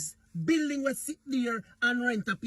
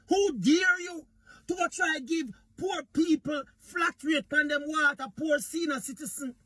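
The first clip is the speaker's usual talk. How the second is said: imitating angry prime minister; 3 semitones higher than usual. Mimicking the prime minister scolding the opposition, mock angry outburst. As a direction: ham up the leader's indignant scolding. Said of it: "The man was so angry".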